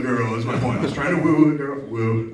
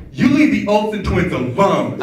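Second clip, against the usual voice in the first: mock angry gay guy; 8 semitones higher, 7 dB louder, slower than usual. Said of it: "he's like".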